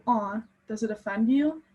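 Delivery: lightly sarcastic aw, mock pity. Student voicing the poet mocking her oppressors, lightly sarcastic. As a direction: tease them with a faint fake sympathy. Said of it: "sarcastic tone when implying".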